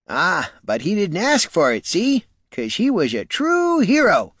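put-on high, eager old country farmer; a rustic old man spinning a hero tale. Old farmer boasting to the warrior, high and eager.

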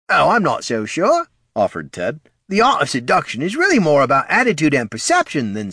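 high, loud, pontificating character voice; ghoul's opinion. Acted. Ted lectures on seduction until cut off, high voice. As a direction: hold forth eagerly in a high voice.

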